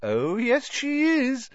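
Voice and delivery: high, gleeful insistence; happily. A narrator's reading. Hermione confirming the secret to Ron, happily. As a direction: sing out the contradiction, pleased. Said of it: "said Hermione happily".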